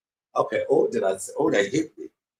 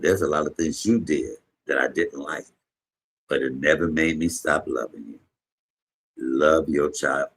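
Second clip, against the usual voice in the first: grandmother's letter; 3 semitones lower than usual. Retold or imitated. Reading grandmother's tender letter.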